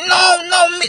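put-on high, loud childish protest; slow brother. John insisting to his brothers, high loud whine. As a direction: whine it out loud like a simple kid. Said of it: "He said".

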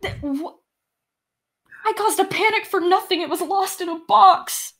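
high, flustered self-blame; flustered NPC. Acted. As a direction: babble out the embarrassment. NPC distraught.

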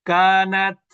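কানাত with a breathy puff on the final t; কানাত ending in released breath; with hams. Shown as a demonstration. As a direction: let the air burst out on the t of কানাত. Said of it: "মুখের কাছে হাত নেন".

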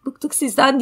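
high, fed-up mock yell; retold shout. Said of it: "diye bağırdı".

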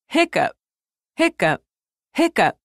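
high hiccupy chirps; lightly hiccuped words; hiccup imitation. Shown as a demonstration. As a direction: act out having the hiccups. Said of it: "They sound like this".

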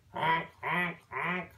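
playful goose honking. Pretend. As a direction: honk like a goose for a toddler. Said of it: "See the goose honking".

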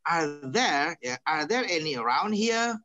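"Are there" held up as a question; questioning tune on "any around here"; question intonation. Shown as a demonstration. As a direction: ask it, keeping "around here" lifted. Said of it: "kalau kalimat tanya".

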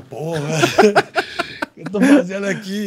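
half-laughing at his own panic; laughing self-doubt. Retold or imitated. Recalling his pre-fight thoughts to his friend, laughing in mock dread. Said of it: "já começa a pensar".

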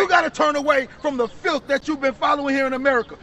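forceful, emphatic preaching; street preaching. Real, not acted. Preacher to brother about Israel's promises, forceful preaching.

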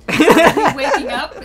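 loud laugh through the words. Real, not acted. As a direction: blurt it out mid-laugh. Laughing question.

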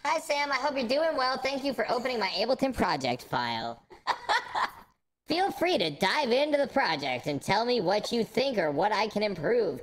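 robotic, processed voice as Jonah; robot voice effect. Acted. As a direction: read it through a robot filter. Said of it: "I'm now Jonah".

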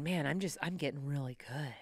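inward thought. Retold or imitated. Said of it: "I'm thinking".

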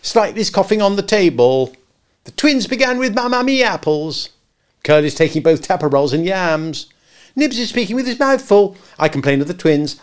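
put-on high, loud clamouring children; tattling. A narrator's reading. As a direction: rattle off the complaints shrilly. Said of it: "The hateful telling broke out".

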